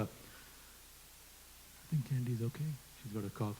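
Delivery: slow whispered aside. Real, not acted. Host whispering an off-mic aside about Candy, hushed. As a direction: lean in and whisper it, slowly.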